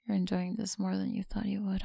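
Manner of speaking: teasing close whisper; breathy whisper to a listener. Acted. Whispered tease.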